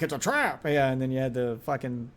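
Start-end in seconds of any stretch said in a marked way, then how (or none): 0.0-0.6 mock alarmed call-out; mock meme exclamation. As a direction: pitch jumping up on "trap". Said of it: "and be like".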